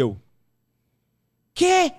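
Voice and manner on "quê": high, loud yelp of disbelief; shocked yelp. Retold or imitated. Chef hears he will host the show, shrieks in disbelief. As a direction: blurt it out in total shock. Shocked reaction to job offer.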